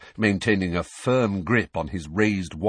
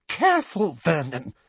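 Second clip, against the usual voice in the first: breathed; 10 semitones higher than usual. A narrator's reading. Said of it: "breathed Aunt Petunia".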